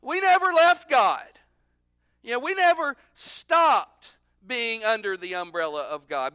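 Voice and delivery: high, loud, insistent protest; slow, emphatic self-righteous objection; indignant Pharisee. Acted. Pharisee objecting to the parable, indignant and loud. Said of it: "The Pharisees are going".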